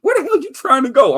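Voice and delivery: high, loud mock redneck. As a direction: shout it like a suspicious trucker. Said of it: "he's like".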